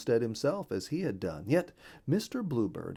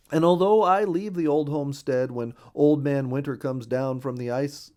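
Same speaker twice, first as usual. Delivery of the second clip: a lightly voiced friendly bluebird, louder and brighter in pitch; cheerful bluebird voice; 4 semitones higher, 6 dB louder than usual. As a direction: chirp along as the neighborly bluebird.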